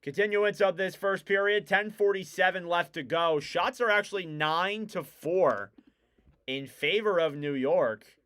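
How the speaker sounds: hockey call that peaks on the shot, then settles; live play-by-play. Real, not acted. Commentator resumes the first period after the tribute, live play-by-play. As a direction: track each pass and punch up the shot.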